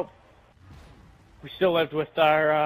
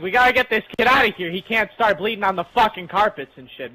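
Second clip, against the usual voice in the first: higher, louder and fast, hurried mock panic; panicked grandparents; 5 semitones higher, 5 dB louder than usual. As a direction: rush it like frantic relatives. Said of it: "And they're like".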